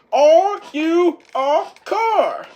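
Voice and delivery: high, loud, slow interrogation; slow drill-sergeant shout. Retold or imitated. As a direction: bark it slowly, word by word. Whiplash repeats, drilling Turbo.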